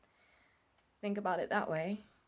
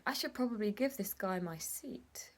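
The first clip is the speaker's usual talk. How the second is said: hushed inner voice, barely there; a private thought whispered on the tram; 6 dB quieter than usual. Retold or imitated. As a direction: whisper it to yourself.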